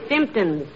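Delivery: "symptoms" slowly, stressed on the first syllable; first-syllable emphasis. Acted. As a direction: correct him with a deliberate SYMP in "symptoms". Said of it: "with the emphasis on the first syllable".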